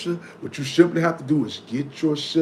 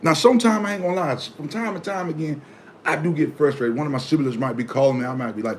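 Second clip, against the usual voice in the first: ordinary talk, nothing marked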